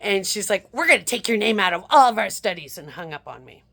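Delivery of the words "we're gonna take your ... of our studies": quick, louder clipped brush-off; rushed, louder hang-up line; curt retort. Retold or imitated. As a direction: fire it back fast and loud. Researcher cutting caller off curtly.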